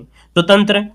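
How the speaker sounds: normal talking voice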